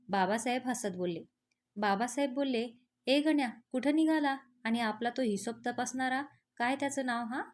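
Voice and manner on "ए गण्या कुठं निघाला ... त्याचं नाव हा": raised voice calling the servant. Acted. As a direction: call across the yard to Ganya. Master calls out to servant.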